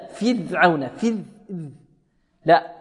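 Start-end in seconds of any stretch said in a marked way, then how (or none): 0.1-1.2 فرعون said fidh-awna, ر turned toward ذ; ra tinged with dhal. Shown as a demonstration. Teacher showing the mistake to students, ra tinged with dhal. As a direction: let the ر of فرعون buzz like a soft dh. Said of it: "فيها رائحة الذال".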